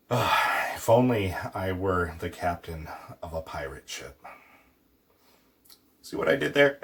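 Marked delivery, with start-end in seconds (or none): 0.1-4.2 mild sigh of longing, if only; a dreamy pirate wishing aloud; wistful wish. Shown as a demonstration. Teacher acting a wistful pirate wish. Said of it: "Subjunctive would be".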